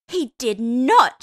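very loud, slow scandalised shriek. A narrator's reading. Hester shrieking at the gossip, loud and scandalised. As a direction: shriek in delighted disbelief. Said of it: "she shrieked".

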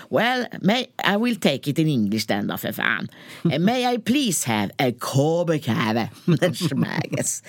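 slow, halting mock English-Danish mix; mock tourist English, slowly; broken English with fake Danish. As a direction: stumble through an order in mixed Danish and English. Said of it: "kan väl danska bara".

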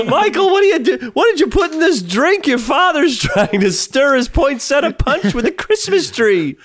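high, shrill scolding mom. Pretend. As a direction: scold the party host like a mom.

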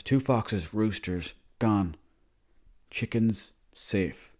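imitating dad's bare one-word report, a pause after each; mock grim headline, word by word; terse telegram-style dad. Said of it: "That's not how you talk normally".

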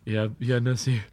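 half-drowned daze. Acted. Rafter surfacing weakly to Nessie, dazed. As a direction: mumble it weakly. Dazed after going under.

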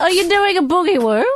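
high, loud silly teasing voice; squeaky mock voice. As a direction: tease in a cartoon squeak.

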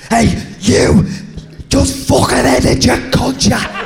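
high, loud imitated bellow; mock shout. Teammate imitating Cookie bellowing at the lads from the shower, high mock shout.

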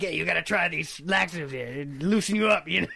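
gravelly jazz-singer voice, laughing near the end; comic impression of a jazz legend pitching laxatives. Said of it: "I like your jazz-singer voice".

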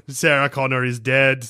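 lightly voiced Arnie accent. Robot cop announcing a death, in an Arnie accent. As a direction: put on a comic Arnie accent. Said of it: "I'm doing an Arnie accent".

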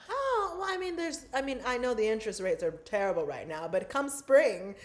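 lightly voiced British well-off relative; hint of a mock-British accent, easing off; put-on British accent. Well-off relative on interest rates, in mock-British accent. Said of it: "where is that accent coming from".

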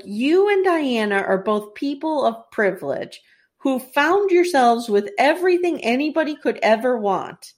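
mildly indignant retelling of a royal scolding; flipping out. Retold or imitated. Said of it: "she flips out on him".

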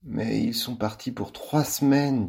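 slow, mournful drawl; gloomy. Acted. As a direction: let it sink, gloomy and slow. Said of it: "d'un ton lugubre".

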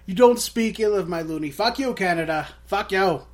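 a jokey furious rant at Canada; mock outrage. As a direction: roar it like a wounded patriot, half joking. Mock outrage defending Canadian coin.

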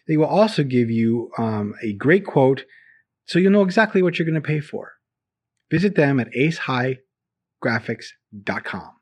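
upbeat sponsor read. Acted. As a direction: read it like a radio ad. Reads a sponsor ad.

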